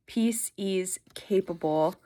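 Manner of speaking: quiet whispered reading. Real, not acted. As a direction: let them out as a breath. Rereading wishes tearfully.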